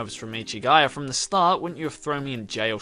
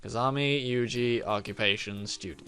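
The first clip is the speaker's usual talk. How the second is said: deadpan protagonist; 3 semitones lower than usual. Acted. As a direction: answer like a bored robot. Repeats deadpan line.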